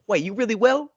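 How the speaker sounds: high-pitched surprised question; taken aback. Retold or imitated. Retelling a teammate's reply to Marshawn, mock taken aback. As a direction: act out a startled double-check. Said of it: "like, taken aback".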